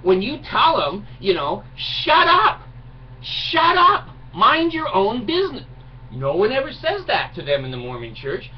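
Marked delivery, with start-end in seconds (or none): 1.8-5.7 high, loud barked "shut up"; shrill-free high loud mock outburst; mock shouting. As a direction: yell it like you've lost all patience. Imagined telling off a Mormon.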